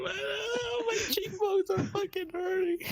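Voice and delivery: talking through helpless laughter; laughing. Real, not acted. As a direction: gasp the words out between laughs. Helpless laughing fit with friends.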